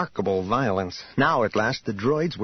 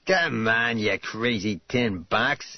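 surly cab driver; slower than usual. Acted. Glaring driver berates the droid.

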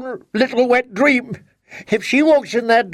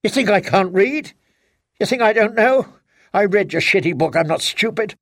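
furious wife; 4 semitones higher than usual. Acted. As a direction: lash out with hurt and rage. Wife accuses husband bitterly.

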